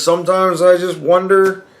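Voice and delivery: a hint of a lonely grandmother; grandma wondering. Grandson voicing grandma about God forgetting her, a hint of an old lady. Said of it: "she goes".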